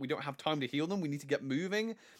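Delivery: ordinary delivery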